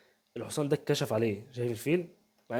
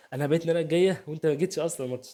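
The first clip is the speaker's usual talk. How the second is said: raised, louder mock taunt; playful boast, pushed up and louder; louder taunting repeat; 3 semitones higher, 4 dB louder than usual.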